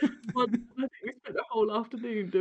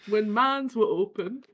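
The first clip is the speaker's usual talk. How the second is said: slow, badly faked northern accent; northern accent slipping towards German; failed northern accent; 4 dB louder, slower than usual. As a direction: attempt northern English and miss. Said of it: "that went south real quick".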